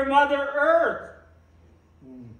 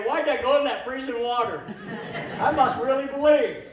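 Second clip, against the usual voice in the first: laughing self-quote; faster than usual. Retold or imitated. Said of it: "You say".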